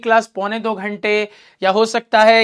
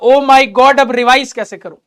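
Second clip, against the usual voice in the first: a louder, exclaimed burst that eases off; mock alarm; 4 dB louder than usual. Student facing piles of full notebooks before revision, in mock alarm. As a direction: act out a mildly overwhelmed student. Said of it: "तो तुमको लगेगा".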